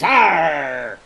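a rolled, growled pirate Arr. Shown as a demonstration. Demonstrating Robert Newton's rolled R's, pirate growl. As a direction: roll the R like a Cornish pirate. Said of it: "the rolled R's and the rolled I's".

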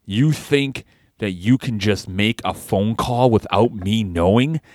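slow, menacing heel promo; wrestling promo. Acted. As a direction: trash talk like a wrestling heel. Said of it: "Cut a promo right now".

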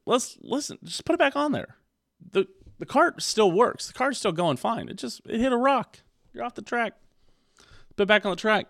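high-pitched, fervent encouragement; rally a friend who slipped up; excited pep talk. Acted. Pep talk to discouraged dieters.

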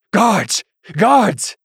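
high, loud calls for help; a bishop cries out for his guards; shouting for guards. A narrator's reading. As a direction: yell out for the guards. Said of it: "the man shouted".

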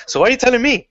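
mock exasperation at his brother; exasperated. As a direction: throw it back at him in disbelief. Retelling brother conversation, exasperated.

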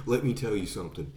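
quick start, then measured imitated menace; mock serious threat. Actor threatens himself in the mirror over his lines, mock serious. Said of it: "He gets all serious".

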